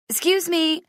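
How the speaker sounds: high, loud call for space. Acted. Viv clearing a path to the mirror, high and loud. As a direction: push through the crowd.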